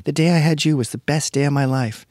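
high, gushing new-mom voice; mother gushing to her son, mock high. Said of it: "she's like".

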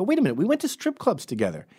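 high-pitched retold disbelief; mock incredulous. Baffled man challenging his friend, high and incredulous. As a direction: protest in comic bafflement.

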